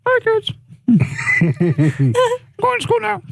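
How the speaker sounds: very high squeaky puppet voice; shrill hammy kid puppet; goofy muffled sock puppet. Pretend. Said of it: "That's a weird puppet voice".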